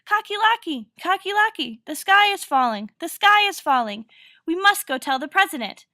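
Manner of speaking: loud, high cries of alarm; storybook yell. A narrator's reading. Birds to their friend Cocky Locky, yelling in alarm. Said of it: "and yelled".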